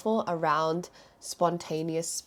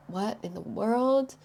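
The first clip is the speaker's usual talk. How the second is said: shocked disbelief; 4 semitones higher than usual. Retold or imitated. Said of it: "she was so shocked".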